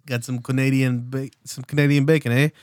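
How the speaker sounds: lightly put-on Canadian accent, joking; mock Canadian accent. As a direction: ham up a Canadian with eh. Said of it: "I don't know the accent".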